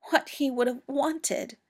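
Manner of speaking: John echoing Mycroft, voice cracking. A narrator's reading. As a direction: repeat it as the voice breaks. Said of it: "his voice cracking".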